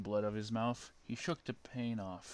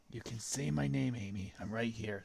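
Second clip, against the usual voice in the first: Shadow voice. Acted. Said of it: "said Shadow".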